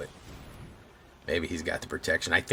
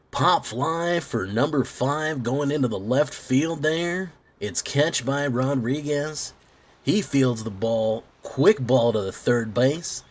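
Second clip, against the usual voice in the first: high, slow, loud play-by-play call; sportscaster impression; 7 semitones higher, 5 dB louder, slower than usual. Shown as a demonstration. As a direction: call it like a baseball announcer. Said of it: "That's what sportscasters sound like more".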